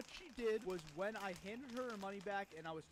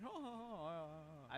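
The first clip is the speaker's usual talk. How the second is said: mock laugh impression; slower than usual. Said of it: "That was my best impression".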